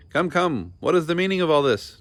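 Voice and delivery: loud, high, fast rage; enraged. A narrator's reading. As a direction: sputter with fury. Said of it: "his face purple with rage".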